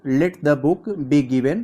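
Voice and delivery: very slow, each word spaced out; deliberate word-by-word dictation; slow read-out. Shown as a demonstration. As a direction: spell the sentence out slowly for the class. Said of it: "तो इसका यहाँ पर simple में क्या होगा".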